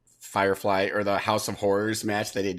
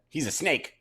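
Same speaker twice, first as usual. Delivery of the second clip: snake voice; 5 semitones higher than usual. Shown as a demonstration. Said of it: "That was my impression of a snake".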